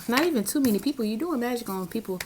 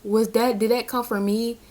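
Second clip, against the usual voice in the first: mock alarmed gasp; 3 semitones higher than usual. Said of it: "I'll hold, be like".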